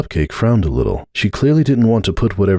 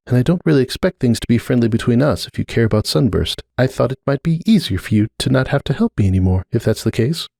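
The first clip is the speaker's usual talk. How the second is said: put-on higher, uneasy young mare's voice; Cupcake, uneasy mare; 4 semitones higher than usual. Cupcake telling Starlight she feels the rift, higher uneasy voice. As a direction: gently admit discomfort, voice lifted.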